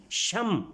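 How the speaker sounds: "شم" as sham, halted on a closed m; stop on the m. Shown as a demonstration. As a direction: say "شم" and stop dead on the m. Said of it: "یعنی رکنا ہے یہاں پہ".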